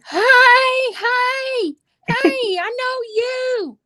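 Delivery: high, drawn-out singsong hello; high-pitched mock-friendly calling out; crazy-person greeting. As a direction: call out like a giddy stalker sneaking up on your sister. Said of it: "like a crazy person, calling her name".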